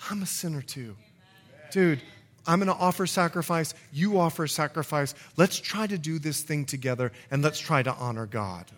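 low, understated sympathy; compassionate fellow sinner. Acted. Priest to repentant person, quietly understanding. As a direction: confide it gently, as one sinner to another.

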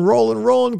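high singsong. Acted. Playful singsong repeat.

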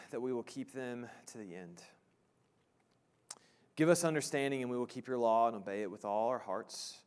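measured prayer, trailing softly at phrase ends; unhurried petition with long pauses. Real, not acted. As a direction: pray reverently, letting each petition settle low. Leads the congregation in prayer.

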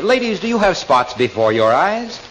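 smooth, well-modulated ad read; a hint of a polished radio pitchman; radio announcer voice. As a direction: sell it like a radio commercial announcer. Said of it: "I hear a well-modulated voice say".

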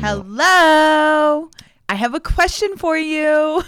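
wife mocking her husband's impression of her; mocking his impression. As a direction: parrot his version of the bright trainer greeting. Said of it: "I was just mocking you".

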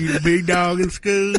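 slow rural gas station drawl; lazy drawl, rocking on a porch; country drawl voice. Retold or imitated. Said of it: "You sound like you're in the front of a gas station".

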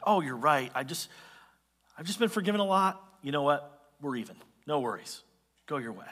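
low, easy letting-off; easygoing forgiveness. Acted. Servant imagined letting his debtor off, easygoing forgiveness.

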